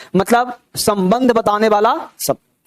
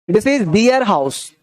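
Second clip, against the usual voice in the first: slow dictation; much slower than usual. Shown as a demonstration.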